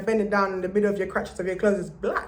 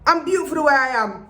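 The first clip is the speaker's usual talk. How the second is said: self-affirmation; 5 semitones higher than usual. Pretend. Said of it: "tell yourself".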